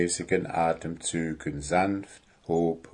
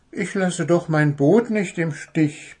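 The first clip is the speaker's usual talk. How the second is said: raised, higher-pitched protest; 8 semitones higher than usual. A narrator's reading. Goblin refuses to abandon his boat, protesting. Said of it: "protestierte Wuschel".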